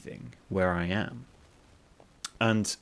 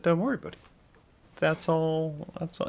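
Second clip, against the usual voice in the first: cashier's voice; 8 semitones higher than usual. Retold or imitated. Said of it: "probably didn't say buddy".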